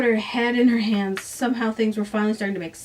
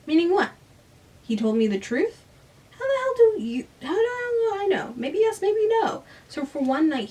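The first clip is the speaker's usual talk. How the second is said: a friend voiced noticeably higher, teasing and blunt; Sam's voice; 3 semitones higher than usual. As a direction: play the pushy best friend, pitched up. Sam voiced by the reader.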